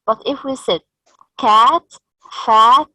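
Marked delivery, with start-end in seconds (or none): 1.4-1.8 said loud and clear; stressed example word. Shown as a demonstration. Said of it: "the odd word or the odd sound here is". 2.4-2.9 said loud and clear; stressed example word. Shown as a demonstration. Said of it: "the odd word or the odd sound here is".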